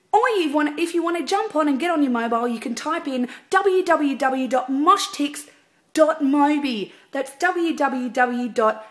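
high, loud, chirpy saleswoman pitch; sales lady. Acted. Singer playing Sharon from Mosh Tix selling tickets, bright sales voice. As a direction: sell the tickets like a cheery Avon lady. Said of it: "Can we do another take?".

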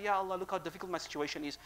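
the right way, gently laying it before God; humble plea. Shown as a demonstration. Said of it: "We say".

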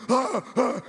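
gritos cortos, algo agudos; gritos de susto imitados. Retold or imitated. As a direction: imita un susto a medio gritar. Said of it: "los peruanos que estaban asustados gritaron". (sustos actuados, moderados)

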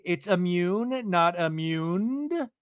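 "immune" and "immuned" each drawn out slowly; pointed correction. Retold or imitated. Katie correcting the word "immuned", slow pointed stress. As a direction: set "immune" against "immuned", stretching both.

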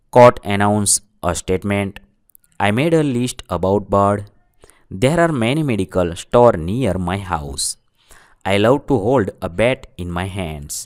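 very slow, word by word example sentences; slow, clear classroom dictation. Shown as a demonstration. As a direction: read each sentence slowly so students can write it down.

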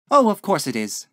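high, loud genteel exclamation; landlady crying out. A narrator's reading. Landlady corrected on lodger's name, exclaiming. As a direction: cry out in sudden recollection. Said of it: "she cried".

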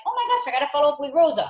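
fast, high sudden realization; light mock eager reminder; excited. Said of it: "I'm like".

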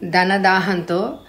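angry. Acted. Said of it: "ఆవేశంగా మీదకొచ్చారు".

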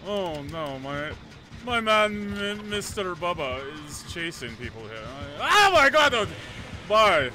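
mock-posh gentleman accent with sudden outbursts; distinguished gentleman accent. Commenting on Bubba's chase to Viper, hammed gentleman accent. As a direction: narrate the chase like an old-time gentleman, accent put on. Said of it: "speak like distinguished gentlemen".

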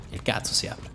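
soft whispered swear; whispered curse. Real, not acted. Gamer failing to open a crate, whispered curse. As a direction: hiss it under your breath.

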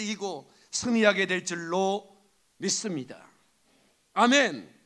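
solemn declaration building to an amen; preacher's benediction. Real, not acted. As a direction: proclaim a blessing over the congregation. Pronounces a blessing on the congregation.

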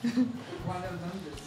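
deep slow voice. Pretend. Intro names, voice put on.

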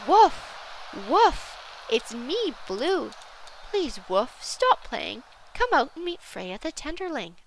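loud high yell settling into a firm call. A narrator's reading. Blue yells to Wolf through the wind, yelling out. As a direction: yell the name, then coax them out. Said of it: "Blue yelled out".

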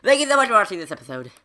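high, loud, stretched-out farewell; big sign-off. Real, not acted. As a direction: call it out long, falling away at the end. Sign-off at episode end.

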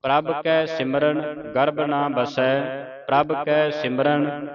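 slow, measured sacred reading; scripture recitation. Shown as a demonstration. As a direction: intone each phrase with long final sounds.

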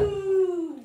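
drawn-out mooing like a cow. Pretend. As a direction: moo like a cow on request. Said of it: "Act like a cow for ten seconds".

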